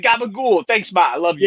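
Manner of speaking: put-on playful New York Italian accent; mock New York Italian. Mocking bandmate's New York talk.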